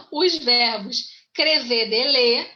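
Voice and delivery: "crever de ler" run together like a French phrase; teacher's rhythmic memory aid on "crever de ler"; French-sounding mnemonic. Shown as a demonstration. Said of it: "parece até francês".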